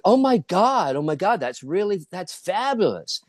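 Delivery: high, gushing mock delight; gushing praise. Producers react to her audition voice, gushing.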